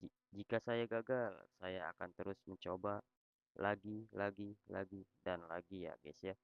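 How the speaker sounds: loud tts voice reciting a rhyme; loud robot voice. Real, not acted. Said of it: "gue pakai suara robot".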